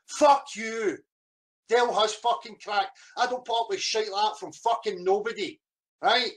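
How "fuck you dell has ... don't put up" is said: sudden angry shout; angry retort. Real, not acted. Man answering those who say he cracked, angry shout. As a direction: shout it straight back at critics.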